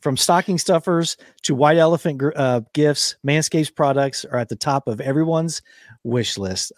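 measured podcast ad read with lifted opening; sponsor ad read. Acted. Host reads grooming sponsor's holiday copy to listeners, ad read.

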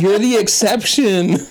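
laughing. Real, not acted. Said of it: "laughing mock encouragement".

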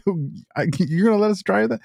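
high, giddy imitation of eager recruits; thrilled disbelief. Marine volunteers asking to drive it, thrilled disbelief. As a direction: act amazed at being trusted.

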